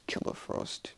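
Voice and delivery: soft mumble of an attack name; acted quiet incantation; mumbled under breath. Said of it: "she just mumbles under her breath".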